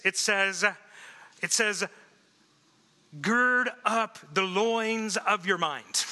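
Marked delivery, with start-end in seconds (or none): 3.2-6.0 mock King James reading. Shown as a demonstration. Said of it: "you would read this".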